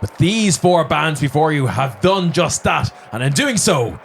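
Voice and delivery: magically amplified voice. Acted. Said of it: "as he says".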